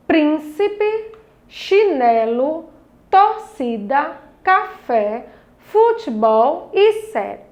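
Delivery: "chinelo", "torcida" slowly broken into syllables; separated syllables. Shown as a demonstration. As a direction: read "Príncipe" to "cérebro" as a measured list, syllables held apart. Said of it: "agora vamos fazer a separação". ("chinelo", "torcida" devagar, separando as sílabas)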